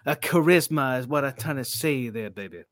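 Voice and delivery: a light Dusty Rhodes promo; hint of Dusty Rhodes selling the dust; Dusty Rhodes impression. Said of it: "Mate, that's brilliant".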